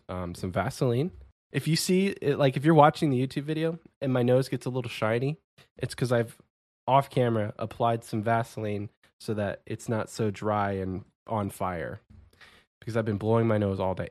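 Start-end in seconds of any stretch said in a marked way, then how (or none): 5.9-14.1 nasal voice. Real, not acted. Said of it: "if I sound nasally, which I do".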